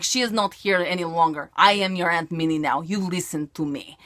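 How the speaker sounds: lightly put-on possessed-aunt voice; Aunt Minnie's alter ego. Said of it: "I love doing those type of voices".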